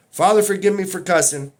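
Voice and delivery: heated plea to the Father; loud prayer. Real, not acted. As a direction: ask God's pardon without calming down. Prays after loud rant.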